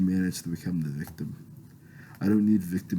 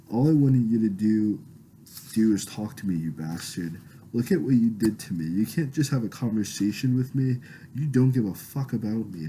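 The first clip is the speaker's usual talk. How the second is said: hysterical yell; 4 semitones higher, 4 dB louder than usual. Acted. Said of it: "Natalie broke down crying hysterically".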